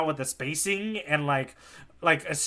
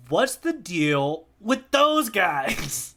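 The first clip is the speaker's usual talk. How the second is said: slow Zoro quote; much slower than usual. Retold or imitated. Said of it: "Zoro's saying it".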